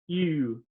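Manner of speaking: "you" drawn out as a French u; stinky-cheese "ew" sound. Shown as a demonstration. Teacher tells students to imagine stinky cheese, drawn-out "you" as "ew". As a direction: stretch "you" like reacting to a bad smell. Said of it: "if you ever smell stinky cheese".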